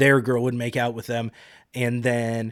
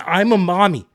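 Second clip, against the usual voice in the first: mocking cutesy; 5 semitones higher, 6 dB louder than usual. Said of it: "Why are you saying it that way?".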